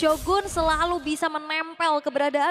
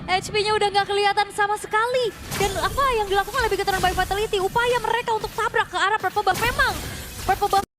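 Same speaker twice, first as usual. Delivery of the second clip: excited shouting; 6 semitones higher, 3 dB louder than usual. Real, not acted. Teamfight climax, caster yelling.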